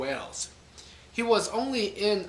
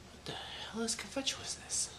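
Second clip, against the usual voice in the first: baffled whisper; 6 semitones higher, 12 dB quieter than usual. Real, not acted. Puzzling alone over a word.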